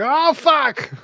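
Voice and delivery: loud high mock-panic yell; panicked yell. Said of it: "You're like".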